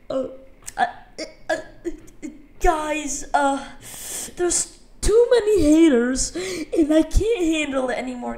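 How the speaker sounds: imitating a whiny fake sob with stammered uhs; mock crying goodbye. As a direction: stutter through it like fake tears. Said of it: "Kind of fake crying".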